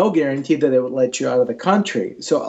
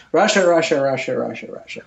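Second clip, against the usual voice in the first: repeated word fading away to nothing; fading echo; much faster than usual. Retold or imitated. Mocking the endless Russia he hears, fading out. Echoing what everyone keeps saying.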